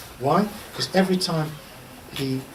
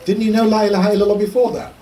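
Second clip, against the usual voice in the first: incredulous; 3 semitones higher, 6 dB louder, faster than usual. Acted. Incredulous rhetorical question.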